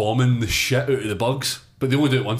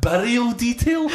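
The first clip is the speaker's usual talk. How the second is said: incredulous mocking; 9 semitones higher, slower than usual. Real, not acted.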